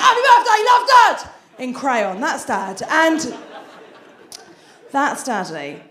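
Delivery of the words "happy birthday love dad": higher, louder capital-letter yell; booming birthday card; mock shout. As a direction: read the card like it's all in capitals.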